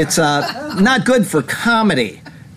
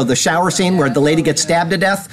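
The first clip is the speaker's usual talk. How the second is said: ordinary talk, nothing marked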